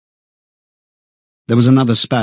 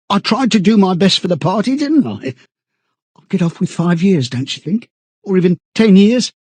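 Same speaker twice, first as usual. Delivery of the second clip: high, pleading, stammering chap; eager, desperate self-justifying in a raised voice; eagerly appealing; 6 semitones higher than usual. A narrator's reading. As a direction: beg anxiously for reassurance. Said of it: "began eagerly appealing to him".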